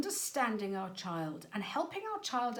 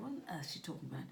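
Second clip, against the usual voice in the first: rushed, softer puzzled aside; baffled parent; 5 semitones lower, 6 dB quieter, much faster than usual. Retold or imitated. Parent puzzled by the colour question, quick and quieter. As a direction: mutter it fast like a confused parent. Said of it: "might go".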